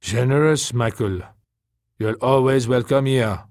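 lightly voiced, appreciative character; grateful welcome. A narrator's reading. Taka welcomes the generous Michael, lightly voiced gratitude. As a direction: offer a welcome with mild emphasis.

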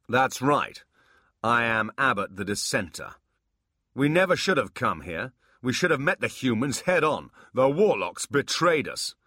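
loud, high, proud demon voice; booming demon voice. Acted. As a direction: proclaim it like a warlord. Abbott proclaims himself.

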